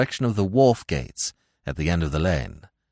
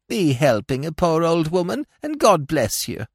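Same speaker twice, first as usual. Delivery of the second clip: whined; 8 semitones higher than usual. A narrator's reading. Old woman whines to Smith about her fall. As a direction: whimper like a hurt old hag.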